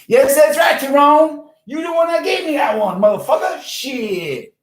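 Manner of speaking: very high, loud accusing holler; mock quarrel yell. Host blaming his assistant for the quote, high mock yell.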